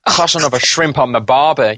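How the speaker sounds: a light, hammed-up Australian accent; lightly put-on Australian accent. Shown as a demonstration. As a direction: toss off a stock Aussie line in a mock Australian accent. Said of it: "can you do an Aussie accent".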